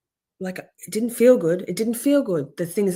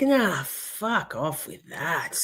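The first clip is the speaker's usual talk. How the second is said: dismissive retort; 4 semitones lower, much slower than usual. Retold or imitated. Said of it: "I'm like".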